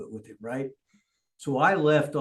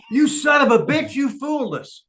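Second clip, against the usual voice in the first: high, louder furious yell; angry outburst; 10 semitones higher, 5 dB louder than usual. Retold or imitated. Mason Rage realizing the fake injury fooled him, shouting angrily. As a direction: shout it like you were tricked. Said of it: "Mason Rage got real mad".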